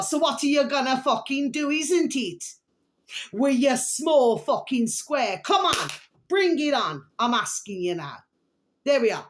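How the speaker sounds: rising into a taunting challenge; calm turning angry. Real, not acted. Taunting, challenging the unseen foes.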